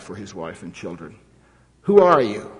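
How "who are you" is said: loud, high, harsh demand; commandant's demand. A narrator's reading. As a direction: bark the question at the prisoner. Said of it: "asked Fritsch".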